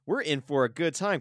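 high, loud burst of delight; excited reaction. Retold or imitated. Viewer reacts to a gory movie moment, excited.

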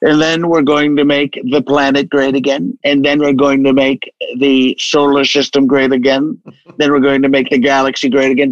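lightly voiced Trump, escalating boast; a hint of Trump building a bigger and bigger promise; Trump impression. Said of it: "I would say".

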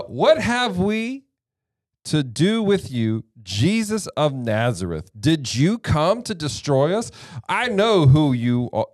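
dramatic scripture yell, drawn out; loud demon's cry. Acted. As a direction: declaim it like the possessed man crying out. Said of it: "I'm yelling".

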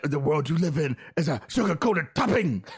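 lightly imitated bat voice; Blade. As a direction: punch "topping" like an action hero. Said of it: "it's his bat voice".

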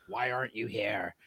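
spooky movie-killer phone voice; Ghostface voice. Pretend. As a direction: taunt like the Scream killer. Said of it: "You just dropped into the scream voice".

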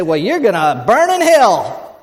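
loud, slow mock condemnation; hammed-up arrogant preaching. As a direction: pronounce doom like an arrogant believer. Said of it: "we have to be arrogant and say".

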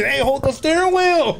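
high-pitched alarmed cry to the driver; high, urgent retold warning; mock panic. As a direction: act out a panicked passenger. Retold panic at friend passing out driving.

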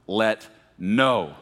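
"no" held out and punched; stress on "no". Shown as a demonstration. Preacher cueing congregation to say it along, "no" stressed. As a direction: lean hard on "no" for all to join. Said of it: "when I say no".

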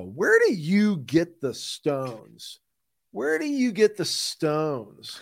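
slow, drawn-out mock outrage; hammed-up indignant challenge; mock indignation. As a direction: stretch every word in playful disbelief. Mock confrontation over the intro.

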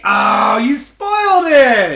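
mock outrage.

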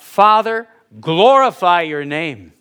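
Jesus crying out. Acted. Jesus calls on his Father, crying out. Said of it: "Jesus cries out".

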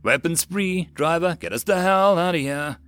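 urgent command. Acted. Sergeant telling driver to escape, urgent command. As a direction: call out orders under attack. Urgent orders under attack.

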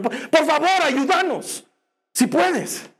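high, strained plea ending in doubt; beg, then add "si puedes" unsure; father begging but doubting; pleading father. Acted.

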